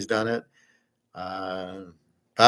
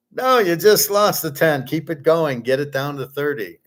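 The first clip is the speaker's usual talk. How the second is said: mock scolding; 3 semitones higher than usual. Scolding the imagined dieter.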